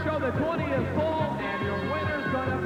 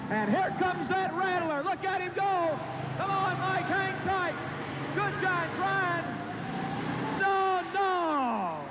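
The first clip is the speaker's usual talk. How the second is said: excited play-by-play; 4 semitones higher than usual. Real, not acted. Live pull play-by-play.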